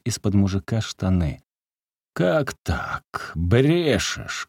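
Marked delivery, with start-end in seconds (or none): 2.1-4.5 sharp high outburst; angry shout. A narrator's reading. Peasant shouting at the lying beggar, pounding the table. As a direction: snap it out, accusing. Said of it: "крикнул мужик, ударяя кулаком по столу".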